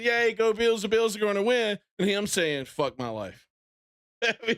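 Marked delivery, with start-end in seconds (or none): 0.0-1.8 high, mock-jubilant fan cheer; retold cheering. Fan recalls turning hopeful for the Bills, mock cheer. Voicing own cheer, contrasted with despair. 2.7-3.5 softer, lightly mimicked defeat; retold dejection. Fan voices rival whose team is losing, understated dejection. Voicing friend's despair after cheer.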